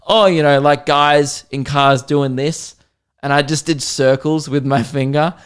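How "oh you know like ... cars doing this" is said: mock-casual condescension, slowing down; condescending. Teller winding up the American passenger, condescending back. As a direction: retell a needling put-down. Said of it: "just being as condescending back".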